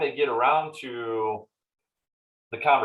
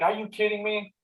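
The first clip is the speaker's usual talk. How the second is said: much higher mock-furious disbelief; exasperated yell; 10 semitones higher than usual. Car owner yelling at the mechanic's quote, higher mock fury. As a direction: act out losing it over the bill. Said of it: "you're screaming, you're yelling".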